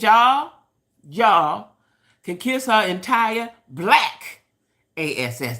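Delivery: imitating a sassy call-out, loud start, then slow and spelled out; drawing out each word like you're telling the whole crowd off; a singer's words. Quoting a singer telling her critics off, loud then slow. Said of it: "That's how she said it".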